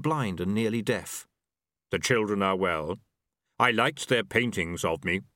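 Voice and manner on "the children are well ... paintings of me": unhurried Death, every word weighed; grim reaper voice. A narrator's reading.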